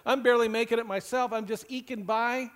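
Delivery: mildly weary mock complaint; lightly imitated exasperation; exasperated eye-roll. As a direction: voice a put-upon listener's grumble. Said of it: "roll their eyes and go".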